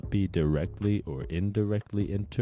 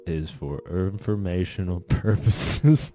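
strained voice; 3 semitones higher, 4 dB louder than usual. Acted. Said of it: "wrapped up in my throat".

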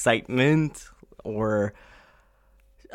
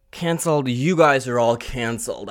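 dismissive. Real, not acted. Dismissing people who mock her.

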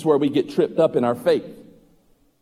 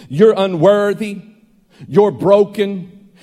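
rebuking voices; 3 semitones higher, 5 dB louder, slower than usual. Acted. Voices of others rebuking him.

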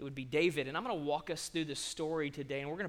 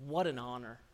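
humble David; 5 semitones lower, 4 dB quieter than usual. Acted. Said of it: "David, in essence, says".

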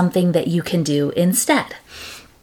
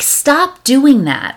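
mock parent scold; 7 semitones higher, 5 dB louder, slower than usual. Parent scolding pestering kid.

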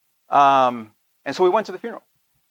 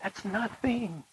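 slow emphasis; 3 semitones higher, 12 dB quieter, much slower than usual. Real, not acted. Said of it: "let me tell you".

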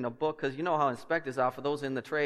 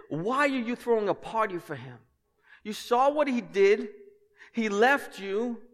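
indignant brother; 6 semitones higher than usual. Acted. Older brother's jealous complaint.

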